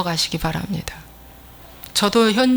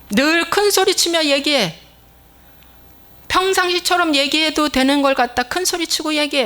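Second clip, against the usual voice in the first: raised scolding; 5 semitones higher than usual. Acted. Preacher mocking habitual shouting.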